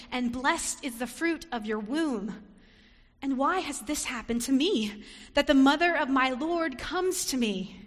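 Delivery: joyful blessing. Acted. Elizabeth greeting Mary, joyful loud blessing. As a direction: bless her with rising joy. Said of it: "This is how she responds".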